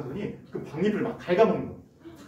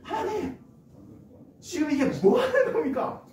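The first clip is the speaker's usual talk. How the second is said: higher, louder indignant protest; protesting to God; 14 semitones higher, 3 dB louder than usual. Acted. Jonah confronting God over the withered vine, higher and louder in outrage. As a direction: demand an answer, outraged. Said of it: "하나님한테 따지기 시작하는 거예요".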